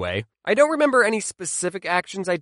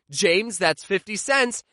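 stern mom; slower than usual. Retold or imitated. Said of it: "my mom would hear me and say".

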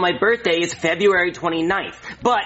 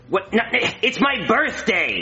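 exasperated correction; 6 semitones higher, slower than usual. Acted. Friend corrects the others' guesses.

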